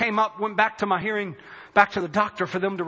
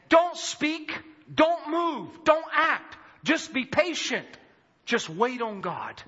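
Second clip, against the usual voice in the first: slow, weighty delivery, each phrase set apart; prophetic word; 4 semitones higher, slower than usual. Retold or imitated. Pastor reads the note to the congregation, solemn and measured. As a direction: deliver it slowly as a solemn message, easing down at the end.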